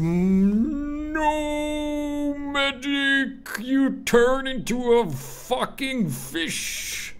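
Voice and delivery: high, loud desperate yell; man down shout. Real, not acted. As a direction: scream as you go down. Dying, shouting for medic.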